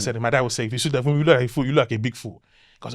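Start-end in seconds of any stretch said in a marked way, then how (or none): 0.7-2.4 put-on understated Nigerian accent, no clowning; mundane Nigerian accent. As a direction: give a restrained Nigerian dad accent. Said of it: "do it with a mundane accent".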